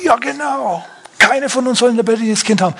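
high, mock-spiteful woman's voice; spiteful other woman. Jealous woman answers the king, high and spiteful. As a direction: sneer it out like the jealous rival. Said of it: "Und die andere sagt".

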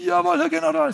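high clipped yes-sir reply; recruit reply. Retold or imitated. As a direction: snap back like a recruit. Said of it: "Und die sagen".

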